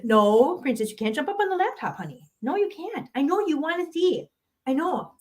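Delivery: gently telling the cat no; sweet no-no to a pet cat. Real, not acted. Talking to cat.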